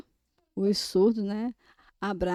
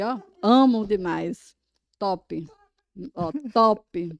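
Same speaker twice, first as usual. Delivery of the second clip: acted conversation; 3 dB louder than usual. Shown as a demonstration. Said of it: "Agora, Denise".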